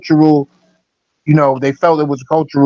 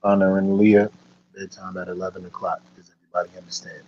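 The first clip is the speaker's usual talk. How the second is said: firm parent; 9 semitones lower, 8 dB quieter than usual. Real, not acted. Parent sending kids to bed.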